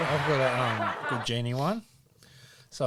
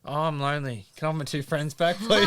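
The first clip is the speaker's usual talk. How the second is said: higher, louder, quickening mock plea; lonely Irishman plea in a joke punchline; 4 semitones higher, 6 dB louder than usual. Irishman begs the genie for his friends back, mock pleading. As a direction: plead it playfully, rising to the last word. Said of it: "The Irishman goes".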